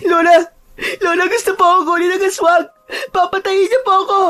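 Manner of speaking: put-on very high, loud, rapid child's wail; crying in fear. Child running to grandmother from the aswang, crying in fear. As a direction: sob out in panic like a small child. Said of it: "Umiiyak sa takot ang bata".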